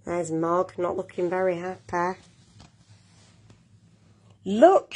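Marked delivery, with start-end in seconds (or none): 4.5-4.9 higher, louder excited call; shouted call. A narrator's reading. Nicky calls the family to see the kitten, shouted. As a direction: call out sharply to get attention. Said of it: "shouted Nicky".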